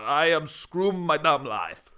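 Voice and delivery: slow, badly faked Russian accent; fake Russian accent. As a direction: drag it out in mock Russian. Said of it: "what's Russian?".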